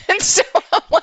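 high, loud laughing lead-in; cracking up mid-story. Real, not acted. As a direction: laugh right through the words. Laughs while retelling her bad news.

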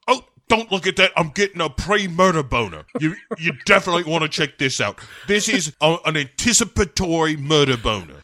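high, loud, frantic comic babble; Bond yelling. Acted. Bond distracting Madeline from the video, mock frantic shouting. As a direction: shout over the video in a hammed-up panic. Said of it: "Bond starts screaming".

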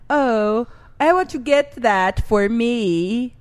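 slow, lightly put-on accent; a hint of a foreign drawl. Game host mimics the girl, mock accent. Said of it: "And when she talks, she says".

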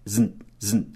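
"zn" sozinho, só consoantes, mais baixo; sílaba final isolada. Shown as a demonstration. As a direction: isole o som "zn", sem vogal. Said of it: "Note que tem duas sílabas". ("zn" didático e curto)

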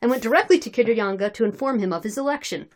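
measured, articulate read-aloud narration; story narration. Acted. Reader telling friends of drunken Cossacks, story narration. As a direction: narrate the tale in a steady reading voice.

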